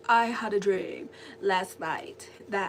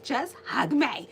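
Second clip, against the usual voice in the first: louder, slower, pouty plea; mock angry demand; 4 semitones higher, 5 dB louder, slower than usual. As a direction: demand the hug, half cross. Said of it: "like, so mad".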